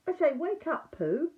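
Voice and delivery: calling a sleepy friend awake; wake up call. Acted. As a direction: snap him out of a dream. Piglet calls to dreaming Pooh.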